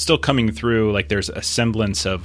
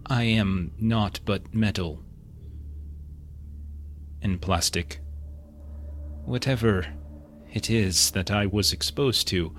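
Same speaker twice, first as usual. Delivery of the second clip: muffled voice; 5 dB quieter than usual. Acted. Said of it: "again, muffled voice".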